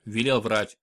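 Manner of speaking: ordinary delivery, nothing marked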